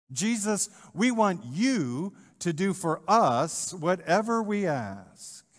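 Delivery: brash disciples making a bold ask; bold demand. Retold or imitated. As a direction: demand it like they're owed it. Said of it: "Sounds kind of bold".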